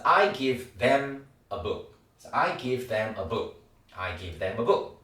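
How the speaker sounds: very slow, each word apart; slow drill. Shown as a demonstration. Teacher drilling them slowly. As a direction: spell it out word by word. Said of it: "발음이 them".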